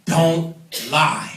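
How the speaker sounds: each word landed hard and separately; emphatic warning to a room. Shown as a demonstration. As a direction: say it as a firm, weighty command. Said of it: "I'm gonna say this emphatically".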